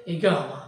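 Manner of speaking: ইগামা with a hard g, long aa; regional Arabic pronunciation. Shown as a demonstration. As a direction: teach ইগামা as i-GAA-ma. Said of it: "আঞ্চলিক আরবিতে উচ্চারণ হবে". (আঞ্চলিক আরবির গ দিয়ে ইগামা)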